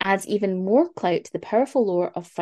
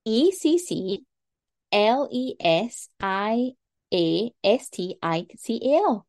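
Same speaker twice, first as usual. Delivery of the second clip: slow spelling; slower than usual. Shown as a demonstration. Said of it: "How do you spell it?".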